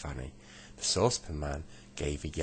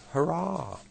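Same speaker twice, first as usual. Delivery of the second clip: cheer; 12 semitones higher, 5 dB louder than usual. Acted. Saucepan man cheers.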